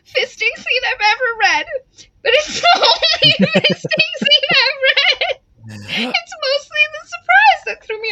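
high, laughing through the words; can barely get it out for laughing; reading a review line while cracking up. Real, not acted.

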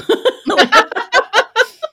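disapproving teeth suck, auntie-style. Shown as a demonstration. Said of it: "what does a disapproving teeth suck sound like?".

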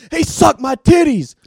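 high, slow, loud mock wail; patient accusing the partner, high mock shout; imitating the patient. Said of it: "she's like".

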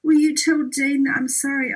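mock tearful apology. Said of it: "she's almost crying".

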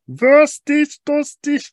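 very high, slow, loud mock German yelp. German officer yelping at the plane, very high and slow.

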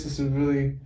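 stoned and mellow. Real, not acted. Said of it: "I am so stoned right now".

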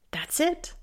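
can't believe it's over; father incredulous at the doctor, rising disbelief; incredulous question. Acted. Gabriel incredulous at brief answer.

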